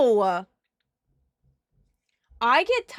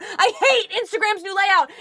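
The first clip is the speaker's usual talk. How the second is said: exasperated, higher; 7 semitones higher, 6 dB louder than usual. Real, not acted.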